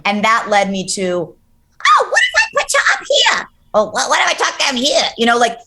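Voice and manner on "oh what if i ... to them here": high shouted put-on voice; high character voice. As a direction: squeal it in a silly high voice. Acting out voicing characters.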